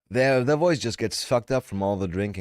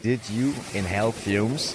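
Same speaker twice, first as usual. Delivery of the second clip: imitating her scold. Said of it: "I fucking love how she says that".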